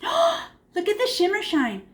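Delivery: gasp, then high, slow admiration; awed delight. Real, not acted. Teacher being shown a pupil's shimmer shine, awed delight. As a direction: marvel at it, pitched high and drawn out. Gasps admiring a child's painting.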